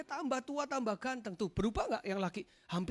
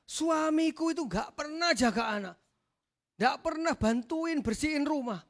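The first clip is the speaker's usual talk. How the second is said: imitated wife's grumble, pitched up; mock domestic complaint, raised voice; nagging wife; 4 semitones higher, 4 dB louder than usual. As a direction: nag about the husband in a higher voice. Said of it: "Pulang diomel-omelin sama istrinya".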